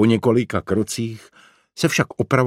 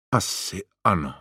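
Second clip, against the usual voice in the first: heavy whisper. A narrator's reading. Franta confirms to Tomáš it is the tree, heavy near-whisper. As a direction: answer reluctantly under your breath. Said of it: "stěžka šeptal Franta".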